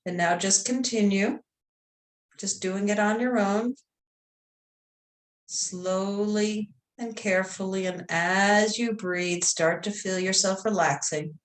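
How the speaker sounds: calm meditation voice, long pauses between phrases; guided meditation. Real, not acted. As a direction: gently guide them into relaxation.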